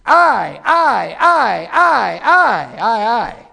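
each I hammered loud; repeated I. Acted. Preacher mocking Lucifer's selfishness, each I hammered loud. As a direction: punch every I like a drumbeat.

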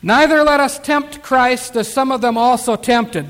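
loud, measured Bible reading; preacher declaiming a verse; scripture reading. Acted. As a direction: read the verse out firmly and deliberately. Reads scripture aloud.

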